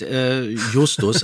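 hesitant, stretched-out "äh, Justus" said slowly; slow stammering "äh, Justus"; stammered name. Shown as a demonstration. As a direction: stumble over "Justus" as if caught off guard.

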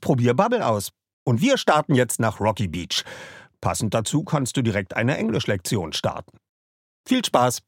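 upbeat sponsor read for a language app. Acted. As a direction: sell it like a podcast ad spot.

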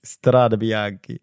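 "Strade Bianchi" slow, each word stretched; "Strade Bianchi" drawn out in Italian style; showy Italian pronunciation. Shown as a demonstration. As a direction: show how easily "Strade Bianchi" is said, slowly. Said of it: "ist auch nicht so schwierig".

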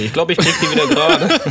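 laughing through the words. Real, not acted. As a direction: chuckle it out, amused. Joking offer, laughing.

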